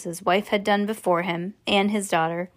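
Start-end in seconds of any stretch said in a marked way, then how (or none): none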